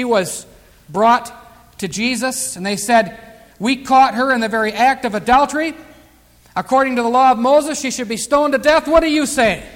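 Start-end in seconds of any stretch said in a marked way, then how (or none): 3.6-9.6 louder, pressing accusers' challenge; malicious accusing. Retold or imitated. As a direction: accuse her publicly, trying to trap him. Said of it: "Mean and malicious, trying to aggravate Jesus".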